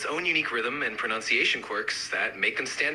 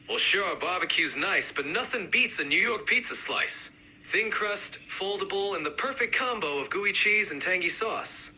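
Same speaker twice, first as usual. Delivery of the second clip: more pronounced New York accent; amped-up New York accent; 2 semitones higher than usual. Shown as a demonstration. Pizza fan countering the barbecue fan, amped-up New York accent. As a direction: push the New York sound. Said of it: "really amp up the accents".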